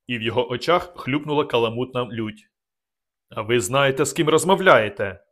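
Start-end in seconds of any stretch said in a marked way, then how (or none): 3.3-5.2 rising to an outraged, louder end; indignant threat. Acted. Vorona threatening the narrator, outraged and louder. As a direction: swell with offended pride.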